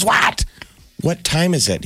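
cranky grandpa echoing the question; mock angry grandpa. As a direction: snap back, lightly hammed up. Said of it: "All angry".

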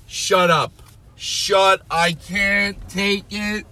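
very high, drawn-out squeals; hammed-up hysterical excitement. Fan calling to Elizabeth about being talked about, hammed-up high shrieking. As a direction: squeal it slowly in disbelief, calling out.

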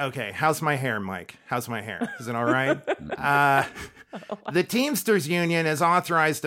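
Garry Shandling voice, low and neurotic; Garry Shandling impression. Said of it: "Gary Shandling".

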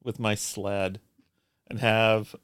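a touch of grand, wistful storytelling; Charles Foster Kane. Pretend. Co-host recalling childhood sledding, mock-grand reminiscence. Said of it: "Charles Foster Kane all of a sudden".

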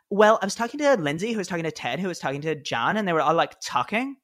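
put-on airy Valley Girl accent with rising lilt. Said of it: "like, a Valley Girl accent for it to work".

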